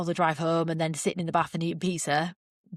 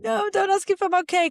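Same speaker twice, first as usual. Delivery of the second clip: mock tearful wail; 13 semitones higher, 4 dB louder than usual. Broken runner retelling her protest to Martin, mock wailing. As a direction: imitate yourself wailing in a much higher voice. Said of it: "I just started crying".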